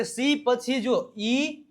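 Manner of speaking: slow phrase with ઈ drawn out and rising; stress on ઈ. Shown as a demonstration. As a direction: dwell on ઈ as the key letter. Teacher stresses the rule's letter. (ઈ લંબાવીને ભાર)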